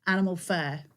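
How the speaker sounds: "fair" for "fur" in a Hull accent. Shown as a demonstration. Crafter showing she can't say animal fur, Hull accent. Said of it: "I can't say that".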